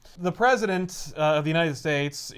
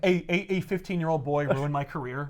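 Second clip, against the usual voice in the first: hammed-up exasperated villain outburst; mock rage. Kraven to Peter over his ruined career, in mock rage. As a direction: play at being outraged and thwarted. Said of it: "throws Kraven into a friggin' rage".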